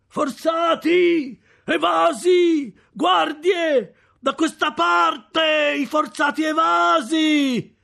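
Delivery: high, slow, loud calls for the guards; frantic cry that convicts have escaped; shouting alarm. Acted. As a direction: bellow the alarm, stretching every word. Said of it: "una voce che gridava".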